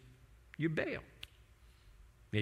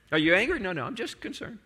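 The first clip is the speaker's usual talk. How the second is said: defensive denial; 4 semitones higher than usual. Acted. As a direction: brush it off, voice raised in pitch. Acted denial of being angry.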